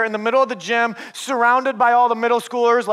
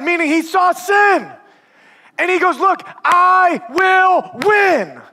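full-force preaching. Acted. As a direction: preach it with fire to the congregation.

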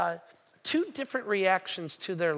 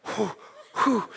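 stressed exhales. Retold or imitated. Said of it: "and I'm going".

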